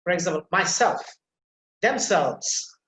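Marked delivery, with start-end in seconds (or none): 0.5-1.0 myself with SELF stressed. Shown as a demonstration. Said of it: "the second part of the reflexive pronoun will be emphasized". 1.8-2.8 themselves with SELVES stressed. Shown as a demonstration. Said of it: "the second part of the reflexive pronoun will be emphasized".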